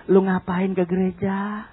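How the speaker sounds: hint of a scoffing neighbour; mocking neighbour. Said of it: "tetangga mulai bilang".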